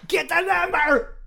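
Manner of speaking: high, drawn-out yell; mock listener yell. Host imitates listeners yelling at him for the number, mock yell. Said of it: "people would be yelling right now at me".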